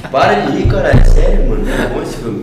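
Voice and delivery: stifled giggles. Real, not acted. Insisting through friends' laughter.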